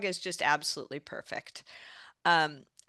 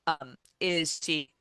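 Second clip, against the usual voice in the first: choppy cutting-out connection; words dropping out over a bad line; radio breaking up. Real, not acted. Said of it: "you're breaking up".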